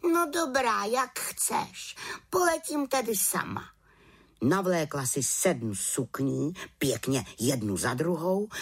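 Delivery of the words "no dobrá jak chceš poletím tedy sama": high, breezy little witch. Acted. Witch tells raven she will fly alone, breezy.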